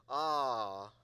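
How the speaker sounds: long, loud contented "ahh"; peaceful ahh. Shown as a demonstration. Pastor showing the congregation how to react to something peaceful, contented ahh. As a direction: demonstrate a peaceful sigh of "ah". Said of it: "when you see something peaceful".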